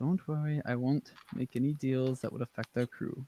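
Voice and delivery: whispered voice. Player in character replying to another character, whispering. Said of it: "I'm gonna sort of whisper back".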